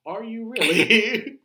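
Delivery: high, slow surprised question; hammed-up amazement; mock disbelief. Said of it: "I'm a Spaniard".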